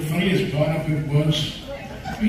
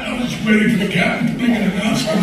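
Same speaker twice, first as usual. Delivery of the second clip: laughing; 6 semitones higher, 6 dB louder, much faster than usual. Real, not acted. Laughing over airplane story.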